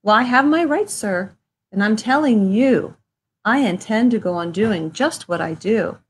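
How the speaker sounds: mock yelling. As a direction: tell the nagging creature off. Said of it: "I yell at the Lorax".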